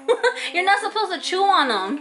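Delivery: laughing while scolding. Real, not acted. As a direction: giggle through the words. Mom laughing.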